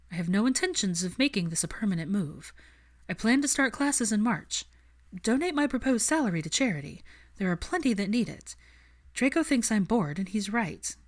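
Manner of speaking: lifted voice, firm and a little wry; Hermione, determined. Acted.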